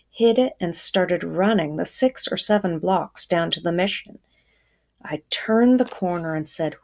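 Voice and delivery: steady storytelling voice for the class; story read aloud. A narrator's reading. Teacher reading a novel chapter to class, storytelling.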